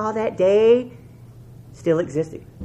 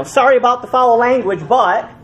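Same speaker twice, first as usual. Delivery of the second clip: mock apology; 3 semitones higher, 6 dB louder than usual. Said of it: "they'll put a caption like".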